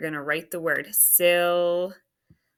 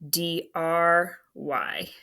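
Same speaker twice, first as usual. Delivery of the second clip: slow spelling; much slower than usual. Shown as a demonstration. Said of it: "is the base word, which is".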